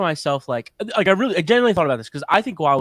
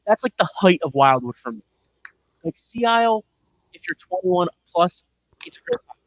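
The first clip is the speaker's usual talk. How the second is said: underwater. Real, not acted. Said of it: "it sounds like you're underwater right now".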